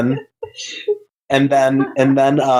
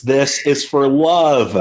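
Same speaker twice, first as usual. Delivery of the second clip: drawn-out heroic cry at normal volume; mock scream; slower than usual. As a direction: stretch it out like a half-hearted battle cry. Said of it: "Goku screams".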